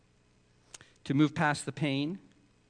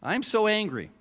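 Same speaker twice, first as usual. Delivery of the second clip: higher, pouting angry whine; mock angry Jonah; 5 semitones higher than usual. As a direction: voice Jonah's childish anger. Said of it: "he was saying".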